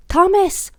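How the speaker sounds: high, loud impatient call; huffed shout. A narrator's reading. Billy calling Thomas, high and loud. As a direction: snap his name in annoyance. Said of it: "huffed Billy".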